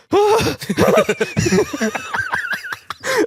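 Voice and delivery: high mock gasp of fright breaking into laughter; imitated terrified gasp. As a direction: gasp like a scared child, then laugh. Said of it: "she was terrified of it".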